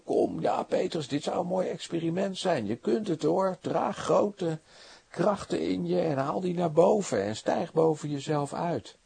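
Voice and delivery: lightly voiced pushy coach, talking him up; mock pep talk. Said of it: "Jezus staat niet te schreeuwen, niet te roepen".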